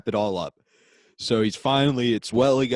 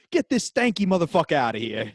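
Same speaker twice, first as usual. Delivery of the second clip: half-raised hostile heckle; mock yelling bully; 3 semitones higher than usual. First baseman heckling the Amish rookie, mock yell. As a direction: play a bully yelling, without full force. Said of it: "the guy who kept yelling".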